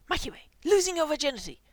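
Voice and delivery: high, loud gleeful jeer; delighted teasing. A narrator's reading. One bandmate teasing another about sex, loud high glee. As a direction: crow it out to embarrass him.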